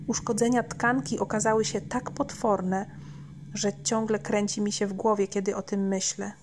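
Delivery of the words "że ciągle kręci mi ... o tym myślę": ordinary delivery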